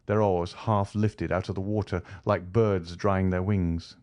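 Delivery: usual speaking voice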